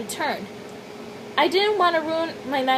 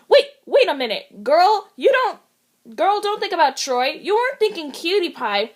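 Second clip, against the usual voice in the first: flustered self-scolding; 4 semitones higher than usual. Acted. Scolding herself in panic.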